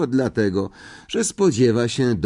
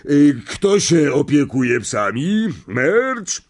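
higher, polite uncle voice; uncle asking; 6 semitones higher, 4 dB louder, slower than usual. A narrator's reading. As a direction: play the fussing host. (uprzejmy wujek pyta)

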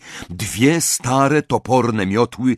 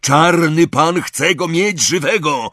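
higher, urgent protest; urgent shout; 6 semitones higher, 3 dB louder than usual. A narrator's reading. Malfoy restraining Crape, urgent shout. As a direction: cry it out to hold him back. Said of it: "krzyknął Malfoy".

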